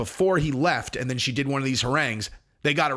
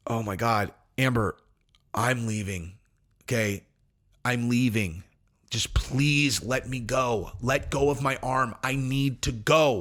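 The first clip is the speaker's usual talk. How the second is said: completely calm; 3 semitones lower than usual. Retold or imitated. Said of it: "he is completely calm, completely sober".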